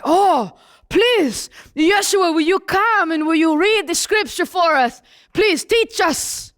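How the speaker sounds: plead, drawing out the last words; pleading religious leaders. Acted. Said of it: "religious leaders see him and they say".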